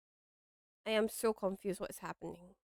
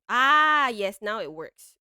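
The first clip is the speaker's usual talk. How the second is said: real relief; 12 dB louder, slower than usual. Real, not acted. Streamer whose broken Discord just came back, relieved outburst. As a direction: cry out as it finally works. Discord finally works again.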